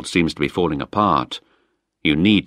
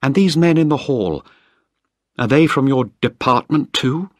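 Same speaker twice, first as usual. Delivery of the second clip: higher, clipped hostile demand; Penny coldly demanding the man in charge; cold and accusing; 7 semitones higher, 3 dB louder than usual. Acted. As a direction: chill toward him, then a flare. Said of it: "She looked at me coldly".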